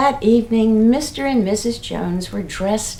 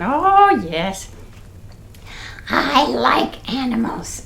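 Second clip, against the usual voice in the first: fairy godmother; 3 semitones higher than usual. Acted. Fairy godmother puppet dialogue.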